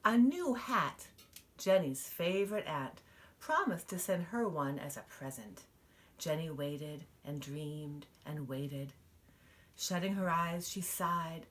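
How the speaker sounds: lively storybook reading; reading to children. Acted. Mother reading a picture book to her child, expressive storytelling. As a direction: read it out to little ones, full of wonder.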